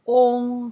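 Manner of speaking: On said loud with a lifted tone; teacher sounding out On in second tone. Shown as a demonstration. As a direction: demonstrate On for learners, loudly. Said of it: "Second tone".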